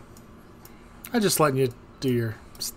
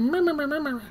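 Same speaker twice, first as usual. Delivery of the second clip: The Cheat; 13 semitones higher than usual. Acted. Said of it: "Where's the cheat?".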